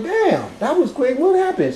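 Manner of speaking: high, puzzled, slowed disbelief; rising surprise at her quick return; startled. Retold or imitated. Girlfriend back after nine minutes.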